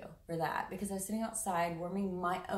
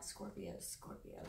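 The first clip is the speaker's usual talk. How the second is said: hushed, almost whispered name; soft whispered call; quiet calling; 12 dB quieter, slower than usual. Retold or imitated. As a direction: murmur the sign as if to yourself. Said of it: "I'm like".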